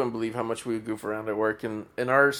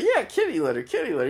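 mild kitty litter voice; 6 semitones higher, faster than usual. Retold or imitated. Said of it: "in that voice".

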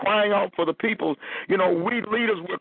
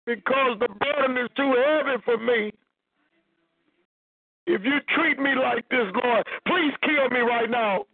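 higher, pleading voice, as if close to tears; pleading Moses; 4 semitones higher than usual. Acted. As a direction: beg God like a worn-out leader at his limit. Preacher voices Moses pleading with God.

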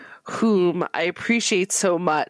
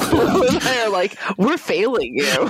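laughing; 6 semitones higher than usual. Real, not acted. Laughing self-mockery.

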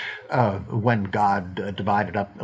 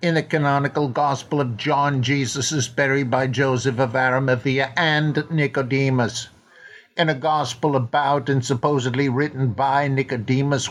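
put-on Welsh accent. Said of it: "my terrible Richard Burton imitation".

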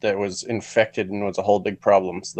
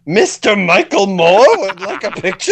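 laughing mock request; 8 semitones higher, 5 dB louder than usual. Mimicking security guard, laughing.

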